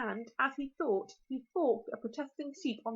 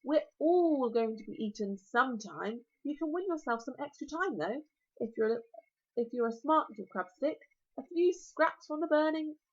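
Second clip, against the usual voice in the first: dragon voice. Acted. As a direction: relish every word like a huge dragon.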